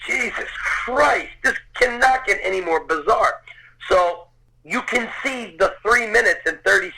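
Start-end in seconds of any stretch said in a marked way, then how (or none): 0.1-3.4 amazed disbelief. Retold or imitated. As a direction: stretch it out, overwhelmed and incredulous. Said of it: "I'm like".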